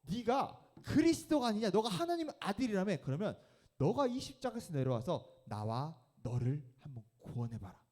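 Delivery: high, loud jeering taunt; mocking robber. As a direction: sneer up at the man on the cross. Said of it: "한 명은 이렇게 이야기해요". (예수를 조롱하는 강도, 높고 큰 비웃음)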